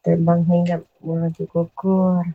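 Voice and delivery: slow, measured verse recitation; pantun recital. Shown as a demonstration. Caller recites a pantun for the radio host, measured verse. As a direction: recite it as a drawn-out pantun line.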